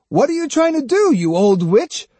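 put-on high, indignant boy's shout; angry shout. A narrator's reading. Jotaro grabbing hold of Osugi, shouting in outrage. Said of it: "He grabbed hold of her and shouted".

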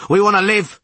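high, loud, rough rasp; rasping defiance. A narrator's reading. Tallest sailor justifying mutiny to witcher, loud rasp. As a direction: rasp out the demand. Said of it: "rasped the tallest of them".

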